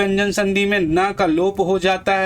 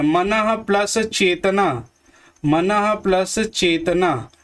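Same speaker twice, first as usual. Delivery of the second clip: slow sounding-out; slower than usual. Shown as a demonstration. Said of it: "क्या बनेगा यहाँ पर".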